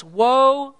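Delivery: a high, loud, ringing "Woe"; angel's loud cry. Acted. Angel flying through heaven crying out to the earth, loud and high. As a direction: call it out like an angel above the earth. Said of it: "saying with a loud voice".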